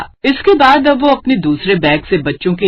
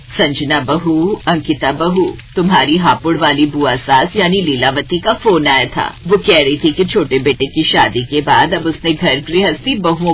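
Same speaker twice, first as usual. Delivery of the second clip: a hint of a lower older woman; lightly voiced stern mother-in-law, matter-of-fact; 3 semitones lower than usual. Mother-in-law tells both bahus the aunt is coming, lightly voiced.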